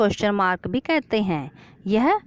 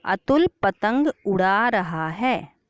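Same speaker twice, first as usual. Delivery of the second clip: example sentence; slower than usual. Shown as a demonstration. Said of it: "जैसे ये वाक्य देखें".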